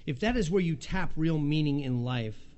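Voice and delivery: emphatic reading of a speech excerpt; reading a quote aloud. Real, not acted. Pastor reading a quote to the congregation, emphatic. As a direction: read it out with weight. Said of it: "I'll just read you".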